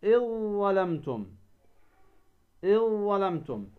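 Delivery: "إذ ظلمتم" as iZ-Zalamtum; dhal merged into za. Shown as a demonstration. Teacher giving a second example, إذ ظلمتم with ذ absorbed into ظ. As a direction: lengthen the merged ظ across إذ ظلمتم. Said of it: "تدغم الذال".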